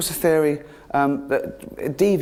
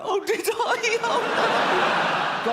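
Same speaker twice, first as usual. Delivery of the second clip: mock dismay; much slower than usual. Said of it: "maybe you rolled over on it".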